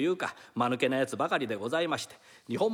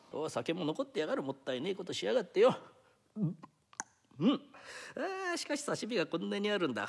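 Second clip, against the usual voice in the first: lightly voiced rough thief, talking to himself; a small-time crook savouring his easy job; thief muttering. Thief alone in the mistress's house, lightly rough.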